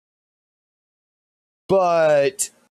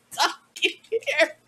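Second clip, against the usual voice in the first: laughing; 12 semitones higher, 4 dB quieter than usual. Real, not acted.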